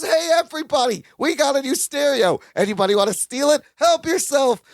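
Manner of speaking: mock shout offering the stereo to thieves; yelling out the window. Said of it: "He's yelling out the window".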